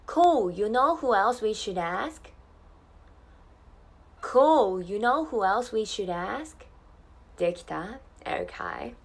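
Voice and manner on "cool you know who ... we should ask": slow Australian accent for repetition; measured Australian pronunciation for learners to copy; Australian English model. Shown as a demonstration. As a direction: model it slowly in an Australian accent, rising question. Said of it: "Repeat after me".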